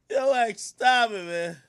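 slow laughing plea. Real, not acted. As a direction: beg him to stop through laughter.

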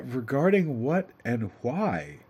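slow, dry questioning; skeptical wife. Acted. Wife asks her husband why, slow and skeptical. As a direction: ask flatly, unimpressed.

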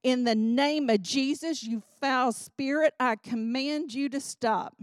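a firm cry of command against the demon. Retold or imitated. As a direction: rebuke the spirit with full authority. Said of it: "I cried out".

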